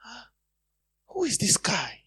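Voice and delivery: high-pitched, taken-aback question; shocked bosses. Retold or imitated. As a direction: imitate bosses aghast at an outburst. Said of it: "the bosses are like".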